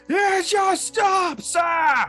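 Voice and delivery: booming slow high ogre shout; ogre bellow. Acted. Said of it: "bellows as loud as he can".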